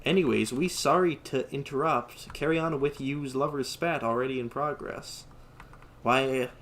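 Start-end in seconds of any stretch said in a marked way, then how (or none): 0.0-5.2 put-on Toji's odd Southern accent. Reading Toji's line to mock the manga, odd Southern accent. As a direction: imitate a weird, clumsy Southern accent. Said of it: "Toji talks like a fucking retard".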